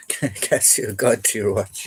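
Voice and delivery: slow, laughing through it. Real, not acted. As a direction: chuckle while repeating. Repeats it while laughing.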